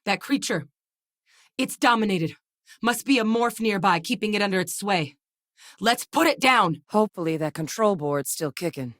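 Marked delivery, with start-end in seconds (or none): 0.1-6.8 raised, urgent call building to an attack order; urgent combat alert. Acted. Fighter warning the squad of a dominated creature, urgent.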